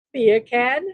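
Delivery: put-on "Beer can" said in a light British accent, rising like a question. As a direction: try out a British "Beer can" with a rise at the end. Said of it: "Say beer can with a British accent".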